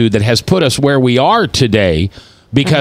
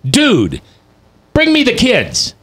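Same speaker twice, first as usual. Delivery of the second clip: blunt casual Jesus; 3 semitones higher than usual. Retold or imitated. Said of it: "How do you know he wasn't saying".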